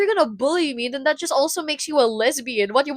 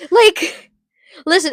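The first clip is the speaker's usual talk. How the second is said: laughing; 5 semitones higher, 5 dB louder, slower than usual. Real, not acted. Cracking up at own joke.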